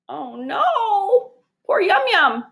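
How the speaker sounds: a touch of dramatic lament; mock mourning. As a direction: play it as theatrical sorrow. Mourning the dead fish.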